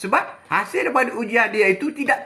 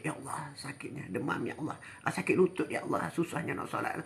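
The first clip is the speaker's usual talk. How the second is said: mock sick groan; 4 semitones lower, 14 dB quieter than usual. Sick worshipper groaning at prayer.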